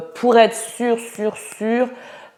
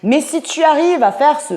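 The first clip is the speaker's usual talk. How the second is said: witch voice; 2 semitones higher than usual. Shown as a demonstration. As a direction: stretch it out like a cackling witch. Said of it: "rire de sorcière".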